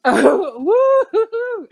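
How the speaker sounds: high laughing whoop; laughing woo. Real, not acted. Host cheers the guest.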